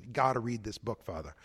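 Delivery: put-on a light Boston accent, gotta read this book, Father. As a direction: do a parishioner from Boston, dropping the r in Father. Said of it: "if I can do the Boston accent".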